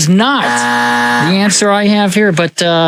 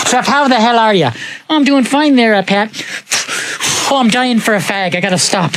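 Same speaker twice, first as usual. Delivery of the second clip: Irish cousin; 3 semitones higher than usual. Retold or imitated. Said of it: "And he was like".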